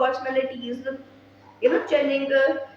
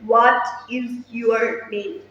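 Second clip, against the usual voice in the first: slow, heavy, hard-edged English; hard way of speaking; 3 semitones lower, slower than usual. Retold or imitated. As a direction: press each word out slowly and hard. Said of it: "in this way".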